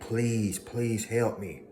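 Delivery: whiny pleading voice, dragged slow; mock begging. Mocking former haters, slow pleading plea. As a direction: play the enemy begging for mercy. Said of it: "They begging".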